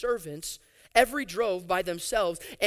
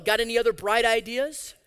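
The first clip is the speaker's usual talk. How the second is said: sarcastic question; 3 dB louder than usual. Acted. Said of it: "repeated with more force".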